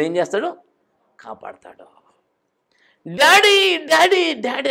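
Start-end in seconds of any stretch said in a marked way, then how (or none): 3.1-4.7 high frantic cries, fading on the last; screaming for daddy. Retold or imitated. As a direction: cry out for daddy in panic. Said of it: "అని కేకలేసి". (భయంతో daddy అని అరుపులు)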